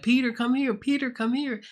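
high, loud calling to him. Retold or imitated. Friends urging Peter to come over, high loud call. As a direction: beckon him loudly through the portal.

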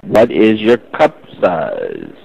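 slow, word by word; slow repeat. Real, not acted. Caller repeats question after "Excuse me?", slow and deliberate.

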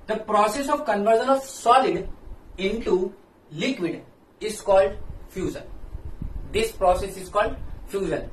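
slow, word by word, so students can write it down; slow dictation. Shown as a demonstration. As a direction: dictate each word clearly for notes. Dictating a definition slowly.

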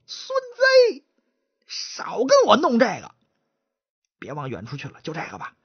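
brisk, dismissive partner, a hint of contempt; lightly voiced chatterbox. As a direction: chatterbox cuts off the stutterer, dismissive. Chatterbox brushes him off.

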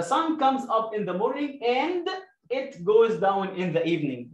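very slow, careful read of the sentence; slow model reading. Shown as a demonstration. Teacher reading the whole sentence to the class slowly. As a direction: stretch the sentence out for learners. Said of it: "teacher reads full sentence slowly".

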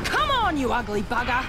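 very high, loud yell at the monster; yelling a taunt at the creature while firing; taunting shout. Acted. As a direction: bellow a challenge mid-fight. Taunting the enemy in a fight.

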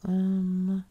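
whispered, muttering to self; hushed whisper to herself. Real, not acted. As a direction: whisper under breath while dialing. Whispering while phoning.

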